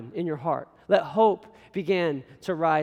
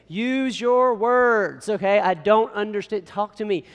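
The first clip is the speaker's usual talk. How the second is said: louder, drawn-out parental instruction; exasperated parent; 2 semitones higher, 4 dB louder, slower than usual. Retold or imitated. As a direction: plead firmly with a whining toddler. Father answering his whining daughter.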